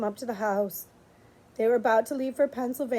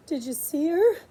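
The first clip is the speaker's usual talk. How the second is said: excited; 3 semitones higher than usual. Acted. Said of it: "she asked excitedly".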